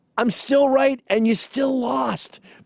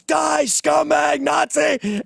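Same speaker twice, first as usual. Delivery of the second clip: higher, slow mock yell of abuse; mock scream; 8 semitones higher, much slower than usual. Protesters screaming at the speaker, mock yelled insult. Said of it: "People are screaming at me".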